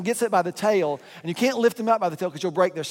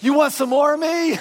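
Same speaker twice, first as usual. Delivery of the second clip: higher, louder mock-tough shout; turtle's challenge; 9 semitones higher, 6 dB louder than usual. Storyteller voicing the turtle taunting the family, mock-tough shout. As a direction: shout it like a cocky little brawler. Turtle voiced, flipping back over.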